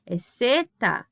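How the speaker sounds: zeta said slowly with an S sound, not a Z; Spanish zeta. Shown as a demonstration. Teacher telling her class Spanish zeta has no Z sound, said slowly. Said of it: "mas eu não digo zeta?".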